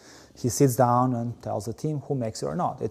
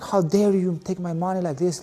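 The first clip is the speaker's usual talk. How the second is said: retold outrage, pitched higher; hammed-up indignation, higher pitch; mock indignant; 6 semitones higher than usual. Calling the bank about his money, mock indignant. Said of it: "I went Albanian on the guy too".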